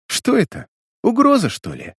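high-pitched scornful question; contemptuous. A narrator's reading. Nick Carter scoffs at Diana's threat, contemptuous. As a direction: toss the question back with contempt. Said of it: "презрительно спросил Ник Картер".

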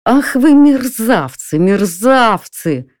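robbed owner crying out bitterly at the thieves; bitter outcry. A narrator's reading. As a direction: cry out the insult in bitter rage. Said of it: "вскричал я с горечью".

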